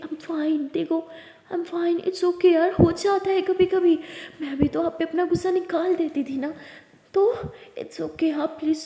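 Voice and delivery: tender consoling. Acted. Lily tenderly consoling crying Lakshmi. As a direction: coax her to stop crying.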